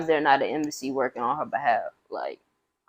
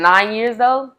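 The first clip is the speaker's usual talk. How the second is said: higher and louder, stunned at the number; disbelief; 7 semitones higher, 7 dB louder, slower than usual. Real, not acted. Host repeats the sentence length to his co-host, higher and louder in disbelief. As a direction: hit it like you can't believe it.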